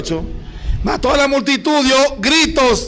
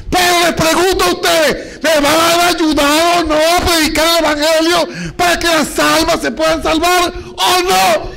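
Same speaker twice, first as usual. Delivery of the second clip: fiery preaching; 4 semitones higher than usual. Real, not acted. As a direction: push the question hard at the church. Preacher challenging the congregation.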